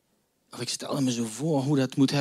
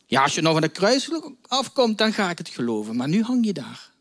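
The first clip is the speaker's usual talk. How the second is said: jeering crowd; 4 semitones higher than usual. Acted. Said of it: "En hoor ze roepen".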